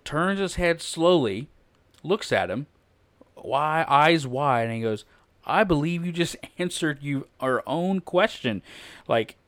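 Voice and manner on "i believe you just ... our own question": comic deadpan. Acted. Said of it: "if there was a comedy scene".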